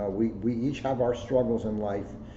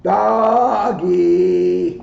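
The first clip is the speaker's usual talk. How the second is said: excited cry; 8 semitones higher, 13 dB louder than usual. Real, not acted. Playful cheer about a dog.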